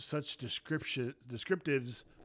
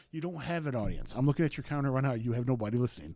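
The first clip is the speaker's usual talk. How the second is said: yelling at Frank; 5 dB louder than usual. Retold or imitated. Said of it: "yell at him every single time".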